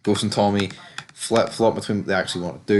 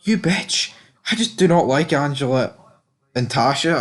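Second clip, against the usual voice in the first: annoyed inner thought; 4 semitones higher than usual. Retold or imitated. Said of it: "And I'm thinking".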